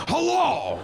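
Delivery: loud, high shouted hello; terrified kid recalling a scary movie shout; Al Pacino hello. Retold or imitated. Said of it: "orange person go".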